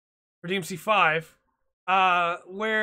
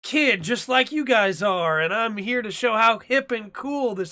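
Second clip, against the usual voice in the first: put-on young hip stereotype; 2 semitones higher, 4 dB louder than usual. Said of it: "you know the stereotype of".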